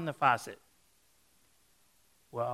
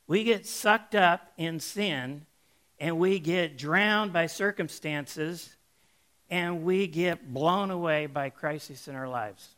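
slow, louder preacher's emphasis; preaching; 3 semitones higher, 6 dB louder than usual. Acted. Preacher applies the canary story to the listeners, slow emphatic preaching. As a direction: drive the lesson home to the congregation.

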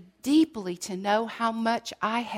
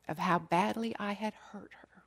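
hushed whisper; 7 dB quieter than usual. Real, not acted. Confessing pain to mother, whispered.

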